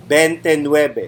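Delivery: "veintinueve" said as "bentenuebe" with a b; Tagalog pronunciation. Shown as a demonstration. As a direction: say "veintinueve" the Filipino way, b not v. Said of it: "in the most Filipino accent".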